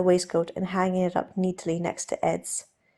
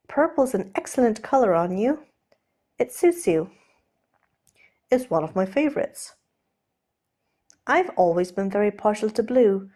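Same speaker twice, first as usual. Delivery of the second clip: lightly raised, chattering gentleman voice; Steed babbling; 2 semitones higher than usual. Acted. Steed babbling about colours to distract himself, nervous chatter. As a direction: let Steed ramble nervously.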